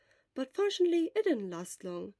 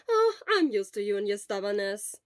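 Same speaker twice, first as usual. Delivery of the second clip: lively friend voice; lightly voiced teasing friend; Hisashi's voice; 9 dB louder than usual. Hisashi voiced louder, brighter.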